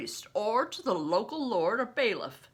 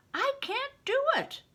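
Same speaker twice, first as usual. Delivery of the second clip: put-on a boy giving up, pitched high; high despairing cry. A narrator's reading. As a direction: voice jumps high in frustration. Crispin despairs at squeaky pipe.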